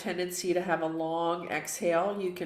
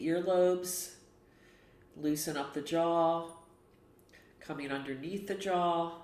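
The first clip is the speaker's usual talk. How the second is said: unhurried, even guiding voice with long pauses; guided relaxation. Real, not acted. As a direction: gently talk them through a self-massage, leaving space between phrases. Leads face massage meditation.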